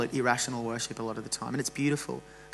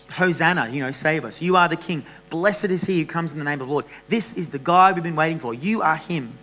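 raised, louder calls of praise; crowd yelling out; 3 semitones higher, 6 dB louder than usual. Retold or imitated. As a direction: call it out like the cheering crowd. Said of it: "they're yelling out".

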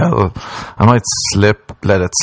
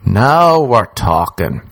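slow savouring; 2 semitones higher, much slower than usual. Pretend. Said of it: "Now we're figuratively talking".

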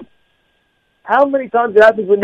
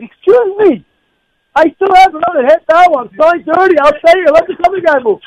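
high-pitched, arguing back; mock-indignant, insistent retort; retold indignant comeback; 6 semitones higher than usual. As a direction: act out an affronted protest, pitched well up. Retold indignant comeback in parking quarrel.

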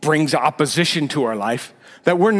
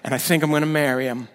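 whiny struggler. Retold or imitated. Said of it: "that could be a guy speaking too".

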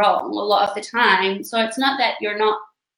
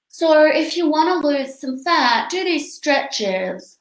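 dull monotone; 5 semitones higher, slower than usual. Retold or imitated. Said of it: "they're like".

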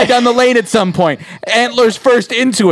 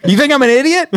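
laughing mock outrage; 3 semitones higher than usual. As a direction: fake angry producer, laughing. Mock outraged studio exec.

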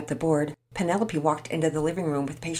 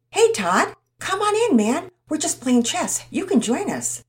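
put-on louder, higher, eager boy welcome; excited greeting; 12 semitones higher, 6 dB louder than usual. Tommy welcoming Todd inside, loud and excited. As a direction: throw the door open with delight.

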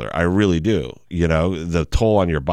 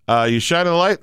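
higher voice over a radio; 8 semitones higher, faster than usual. Retold or imitated. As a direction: call it over a walkie-talkie. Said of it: "he's like".

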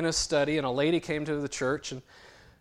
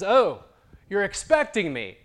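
a touch of a frail man, higher, louder; lightly voiced old man; 7 semitones higher, 10 dB louder than usual. Dying man greeting the pastor, lightly voiced. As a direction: greet the pastor like you knew he'd come.

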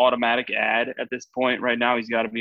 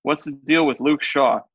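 book report reading. Pretend. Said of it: "like you were reading a book report that you didn't write".

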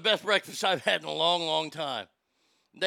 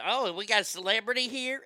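imitated Southern lady, raised pitch; Southern lady's drawl; 5 semitones higher than usual. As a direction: mimic a nosy Southern old lady. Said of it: "and that's how she talked".

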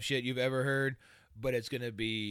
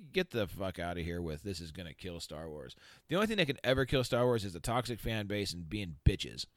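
winded after a long rant; catching breath between words; 4 semitones lower, 4 dB quieter than usual. Real, not acted. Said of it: "I'm just about out of breath and out of rant".

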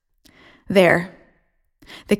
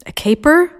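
disturbed question; 7 semitones higher than usual. A narrator's reading. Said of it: "looking disturbed".

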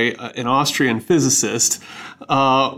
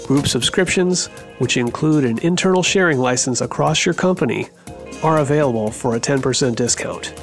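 ad read. Acted. Host reads sponsor ad over music.

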